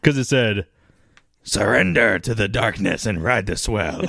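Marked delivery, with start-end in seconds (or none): 1.4-4.0 pirate voice. Acted. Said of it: "I felt like I had to go a little pirate there".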